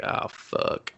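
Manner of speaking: soft breathy whisper of dread. Retold or imitated. Viewer hears the sit-up again, whispered dread. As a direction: breathe it out in horror. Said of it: "you're just like".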